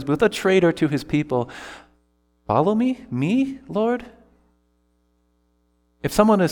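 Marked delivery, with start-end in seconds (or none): 2.5-4.1 incredulous disbelief. Acted. Matthew's astonished reply voiced.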